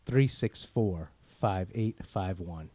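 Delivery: slow, carefully spelled out digits; slow and clear. Shown as a demonstration. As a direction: read the number slowly and clearly. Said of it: "Can you say that again?".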